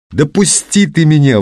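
high-pitched indignant outburst; acted outraged cry. A narrator's reading. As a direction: protest hotly, pitch jumping up. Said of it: "возмутилась Людмила".

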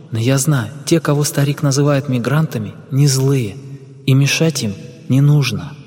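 a hint of a calm young woman; lightly voiced young woman. Anna recalls the light. (слегка обозначенный женский голос)

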